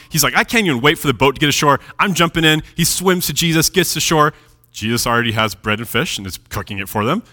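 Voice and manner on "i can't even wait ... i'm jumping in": quick, eager mock excitement; super pumped. Peter retold as impatient to reach shore, super pumped. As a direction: blurt it out, lightly pumped up. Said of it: "Peter gets super pumped".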